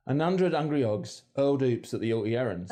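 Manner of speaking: every H dropped, 'undred 'ungry 'ogs 'urled; H dropping. Shown as a demonstration. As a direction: drop each H in hundred hungry hogs. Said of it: "And H dropping".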